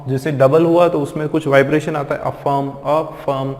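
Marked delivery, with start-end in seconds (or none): 2.2-3.5 अफर्म cut after the अ, silent र; slow अफर्म with a stop after the first syllable; syllable break. Shown as a demonstration. Teacher shows where to cut the word, syllable break. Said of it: "यहाँ पे आप cut कर देते हो".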